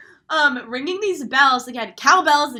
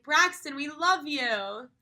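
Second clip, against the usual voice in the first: loving; 3 semitones higher, much slower than usual. Retold or imitated. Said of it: "in, like, a loving way".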